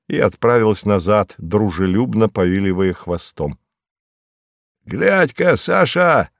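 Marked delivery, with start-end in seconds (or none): 4.8-6.3 high, carrying call; calling out from afar. A narrator's reading. Lezhnev calls to his wife from the distance, high and carrying. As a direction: hail her from the road, higher. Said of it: "закричал Лежнев издали своей жене".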